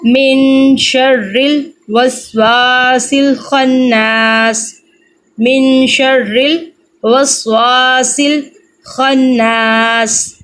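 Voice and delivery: very slow Quran recitation, drawn out. Shown as a demonstration. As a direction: recite it slowly and evenly. Teacher recites the verse. (بہت آہستہ تجوید کے ساتھ تلاوت)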